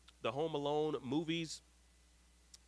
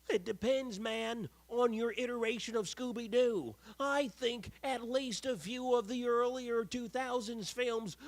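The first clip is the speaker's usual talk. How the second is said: high, slow put-on voice for a viewer's comment; reading comment in put-on voice; 10 semitones higher, 4 dB louder than usual. Reading a fan's comment aloud to viewers in a high, slow put-on voice. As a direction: read it like a goofy character, pitched well up.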